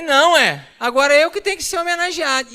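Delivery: high, loud mock demand; mock selfish shout. Husband insisting on the baby's name, loud mock demand.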